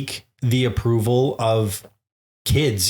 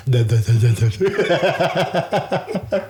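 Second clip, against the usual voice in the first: imitating Jake babbling, laughing; 4 semitones higher, much slower than usual. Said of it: "Jake is literally".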